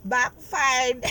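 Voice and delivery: loud, high, crowing exclamation; gleeful gloating. Real, not acted. Reader gloats over enemies' failed attack, gleeful crowing. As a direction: crow it out, loud and high, about to laugh.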